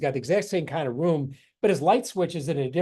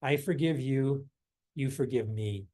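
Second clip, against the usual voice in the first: meditative mantra; 2 semitones lower than usual. Shown as a demonstration. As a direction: murmur it gently with each step. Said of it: "the simple phrase you use is".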